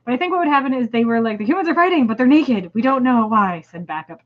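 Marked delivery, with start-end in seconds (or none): 1.4-3.6 high, excited alien voice. Acted. Reading to a friend, voices a baffled alien in high voice. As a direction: play the confused alien, pitched up.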